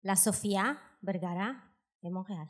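Frenchified version in a Spanish accent; translated into French. Shown as a demonstration. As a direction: spell the name out French-style, in pieces. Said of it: "Je vais vous traduire".

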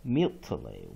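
slow, careful "mutilate" with pitch falling each time; slow teacher demo; slow model reading. Shown as a demonstration. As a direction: read "mutilate" syllable by syllable, deliberately. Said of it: "One more time".

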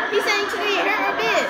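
words tumbling out through laughter; giggly quick retelling; laughing through it. Real, not acted. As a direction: talk fast, high, still giggling.

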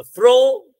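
फ्रो punched high and loud; फ्रो held out with strong stress; stressed syllable. Shown as a demonstration. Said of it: "हमारा stressed है".

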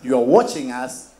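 slow deliberate demo. Shown as a demonstration. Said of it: "you translate what I'm saying".

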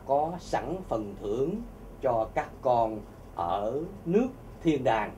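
slow, low, solemn divine voice, lightly done; preacher voicing Jesus promising heaven, slow and solemn; solemn voice of God. Jesus' message, preached slowly.

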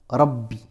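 Rabbi with a rolled R. Shown as a demonstration. Teacher showing the word Rabbi with a rolled R. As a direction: roll the R of Rabbi. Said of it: "Ça c'est le mot".

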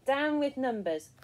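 loud, high rallying cry; protest slogan. A narrator's reading. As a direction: chant it like a protester. Siblings' chant of protest.

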